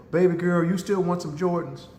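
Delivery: slightly high mother voice, lightly acted; coaxing mother. Mother to upset daughter after the whipping, lightly acted coaxing. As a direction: lightly play a mom checking with her child.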